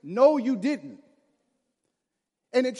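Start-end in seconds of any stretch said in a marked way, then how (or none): 0.0-1.0 slow, louder "No, you didn't" with a falling "No"; sassy mom phrase. Retold or imitated. Mom's sassy catchphrase, slow and louder. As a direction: lean on "No" and drag it out, a touch louder. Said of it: "I heard that phrase".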